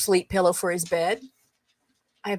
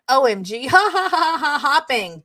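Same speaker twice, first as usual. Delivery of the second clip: higher, louder read-out laughing; acted hysterics; 4 semitones higher, 4 dB louder than usual. Friend texting back about a typo, in mock hysterics. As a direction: burst into a performed ha-ha. Acting out a hysterical texted reply.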